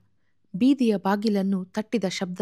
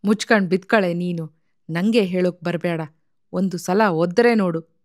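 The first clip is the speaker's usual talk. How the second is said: mild threatening warning, a little louder; 4 dB louder than usual. Acted. Husband warning his wife to shut up, mildly angry. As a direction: read it as a curt, understated threat. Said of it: "ಎಂದು ಹೆಂಡತಿಯನ್ನು ಎಚ್ಚರಿಸಿದ".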